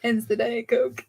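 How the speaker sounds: put-on valley girl drawl, slow; white girl accent. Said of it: "the white girl accent".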